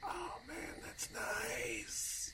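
very high, soft, teary voice; touched cartoon helper. Cartoon helper moved by the farewell, in a high, teary voice. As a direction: choke up on it.

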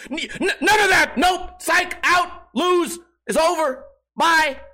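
high, loud, laughing rapid dismissals; hammed-up gleeful rejection; laughing mock dismissal. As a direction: shout each word like a buzzer.

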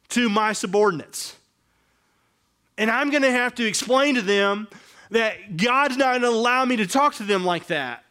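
high, loud, pressing inner voice; fired-up imagined confession. Retold or imitated. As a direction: preach the dread of owning up. Voicing the repentant boss.

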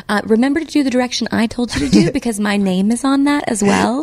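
a hint of a stern director; lightly voiced firm boss; impersonating director. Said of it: "this is my impersonation of her".

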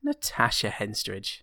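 low and slow. Pretend. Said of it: "depends on the tone that you say it".

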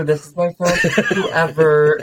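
high, drawn-out fake introduction; put-on social sweetness; gushing introduction. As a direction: gush it slowly, laughing at the end. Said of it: "I would rather just be like".

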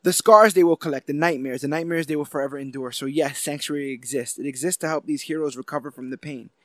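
rousing, declaiming a hero's speech; dramatic speech reading. Acted. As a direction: read it like a stirring address. Reads the speech on.

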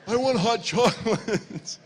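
put-on whiny little kid, high and loud; mock protest, building to an indignant cry; disappointed child. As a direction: imitate a small boy's loud complaint. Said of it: "Ezra's immediately disappointed".

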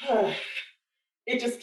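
emotional sigh. Real, not acted. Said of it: "I'm emotional".

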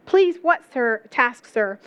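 put-on a touch of a British accent as Jill; light British lilt for the puzzled girl. Preacher voicing Jill in a British accent. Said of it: "I'm trying to rip out my British accent".

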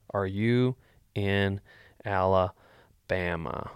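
slow, drawn-out Alabama; drawn-out question. Shown as a demonstration. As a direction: stretch out Alabama slowly. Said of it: "That's what I'm gonna D M him back".

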